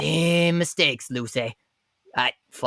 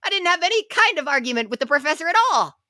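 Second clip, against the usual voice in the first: angry shouting; 10 semitones higher than usual. Acted. Defendant protests loudly.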